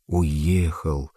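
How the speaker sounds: a forsaken woman repeating the news glumly; dejected echo. A narrator's reading. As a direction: let the hope drain out. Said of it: "уныло повторила она".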